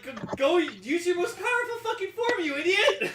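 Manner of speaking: high, loud frustrated yell. Retold or imitated. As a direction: shout at the screen. Yelling at the screen.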